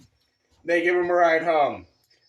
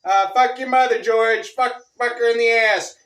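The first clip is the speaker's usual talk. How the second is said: louder, higher mock yell at George; retold screaming insults; 6 semitones higher, 5 dB louder than usual. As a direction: hurl the insults at him, half-acted. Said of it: "we get to screaming and shouting".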